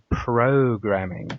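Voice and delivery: "programming" drawn out with deliberate emphasis; stress on PROGRAMMING. Retold or imitated. Telling the licence man they don't watch broadcasts, stress on "programming". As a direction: lean firmly on the word "programming". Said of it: "emphasis on the word".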